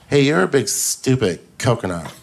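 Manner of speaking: lightly camp cholo voice; a hint of camp in the insult; gay hardcore cholo. Cholo insulting the comedian, lightly camp mock voice. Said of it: "like a gay hardcore cholo".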